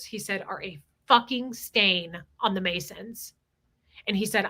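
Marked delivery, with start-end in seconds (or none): 0.5-3.3 slow, emphatic retold condemnation; retold fired-up verdict. Teller quotes a Mason condemning the Jesters, slow and emphatic. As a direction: weigh out each word. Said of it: "He was so fired up about it".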